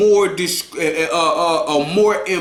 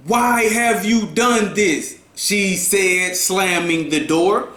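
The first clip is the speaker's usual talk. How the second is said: dramatic reading. Shown as a demonstration. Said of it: "let's say".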